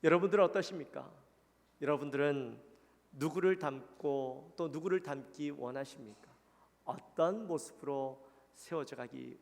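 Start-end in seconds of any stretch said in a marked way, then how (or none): none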